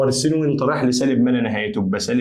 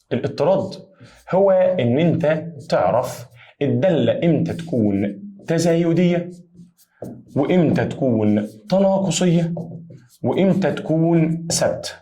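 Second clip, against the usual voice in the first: slow dictation; 2 semitones higher, slower than usual. Shown as a demonstration. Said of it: "teacher spells out the definition".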